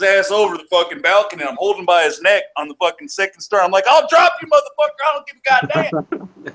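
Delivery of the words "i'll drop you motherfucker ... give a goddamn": loud, high mock-angry shouting; furious retold threat. Man dangling his rival over a balcony, angry shout. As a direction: replay a shouted threat at full tilt.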